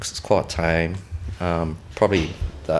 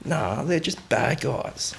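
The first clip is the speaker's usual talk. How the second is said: slow, higher broad Aussie voice; imitated Aussie accent; 6 semitones higher, slower than usual. Local gunman excuses his shooting, real Aussie accent. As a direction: put on a drawn-out Aussie accent. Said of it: "talking in a real Aussie accent".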